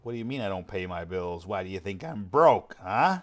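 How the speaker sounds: a loose take on a metal singer's line, building up; imitation of a metal singer. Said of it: "in my best metal singer accent".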